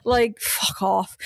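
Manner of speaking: mock killer voice. Hosts mocking the killer's excuses, smug mock innocence. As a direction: play the killer as a smug nice guy. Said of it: "but he's".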